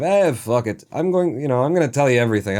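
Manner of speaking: attempted Hispanic voice slipping into a Russian accent; loose, quick Russian accent; accidental Russian accent. Imagining the seller's easygoing honesty, accidental Russian accent. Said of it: "came out in a Russian accent".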